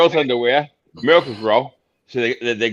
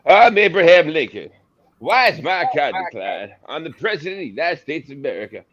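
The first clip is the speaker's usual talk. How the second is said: Abraham Lincoln impression; 4 semitones higher than usual. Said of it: "can you do Abraham Lincoln finding out his card was declined".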